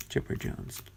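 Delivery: whispered in awe; awed whisper. Real, not acted. Finding a rookie card, whispered in awe. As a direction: breathe the name, awestruck.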